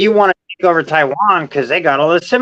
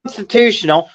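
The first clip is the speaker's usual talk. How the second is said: talking with loose false teeth; words slurred by fake teeth; loose dentures. Real, not acted. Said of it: "my teeth are fake, so some words are a little weird to pronounce".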